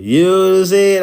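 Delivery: high, loud attempt at a Cali accent; half-hearted California voice, pushed up and out; mock California accent. Host imitating a panelist from Cali, mock California accent. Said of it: "sounded just like a Cali nigga".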